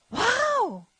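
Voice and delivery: awed wow. Retold or imitated. Quoting the group's awe.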